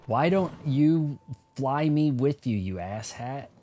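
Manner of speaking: loud, slow exasperated yell. Real, not acted. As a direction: shout after him as he leaves. Yelling at departing game character.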